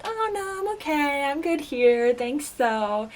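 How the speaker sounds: high, light brush-off easing down; polite refusal. Retold or imitated. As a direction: retell a courteous no-thanks. Acting her polite refusal to teammates.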